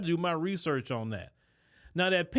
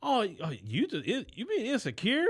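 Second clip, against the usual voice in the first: higher-pitched mocking imitation, halting start; mock gaslighting; 5 semitones higher than usual. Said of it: "for her to try to gaslight her and say".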